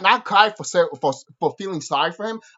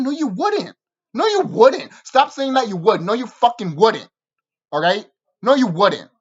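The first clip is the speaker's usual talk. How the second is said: insistent no; 3 semitones higher, 5 dB louder than usual. Real, not acted. Arguing with fans.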